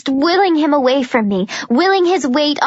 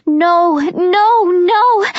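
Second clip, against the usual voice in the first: rising high panicked no's; 6 semitones higher, 3 dB louder, much slower than usual. Acted. Juliet crying out as Jenkins grabs her, panicked. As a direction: cry out in rising alarm.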